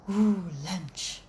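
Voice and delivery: pleased cat. Acted. Cat voiced in a told story.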